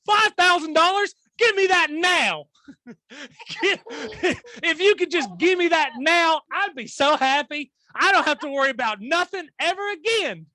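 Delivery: high, loud, laughing mock plea; laughing mockery. Host mocking cohost's teenage self, laughing mock begging. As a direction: beg for the cash through laughter, hamming it up.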